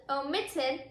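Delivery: "omitted" with the middle syllable MIT stressed. Shown as a demonstration. Teacher repeats the suffixed word, "omitted" stressed on MIT. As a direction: lean on MIT when saying "omitted". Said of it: "the strongest syllable".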